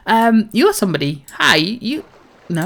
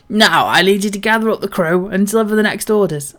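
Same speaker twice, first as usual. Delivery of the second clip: hearty salty sea captain, a touch louder; pirate captain; 4 dB louder than usual. Acted. Captain tells the crew a bawdy tale, hearty pirate voice. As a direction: boom it out like an old sea dog.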